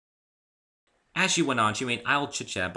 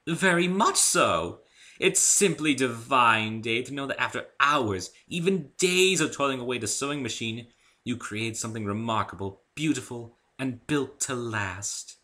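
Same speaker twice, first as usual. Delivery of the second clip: higher, slow, lingering on the words with loving pride; fond zeal; 5 semitones higher, 5 dB louder than usual. A narrator's reading. Rarity telling Dave about her craft with fond zeal. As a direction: savour each word like a treasured gown. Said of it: "with a fond sort of zeal".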